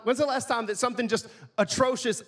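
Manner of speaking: normal talking voice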